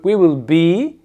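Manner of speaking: "be" held a little, not dragged; moderately long I. Shown as a demonstration. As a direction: lengthen "be" just a bit. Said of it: "faut pas faire trop traîner non plus".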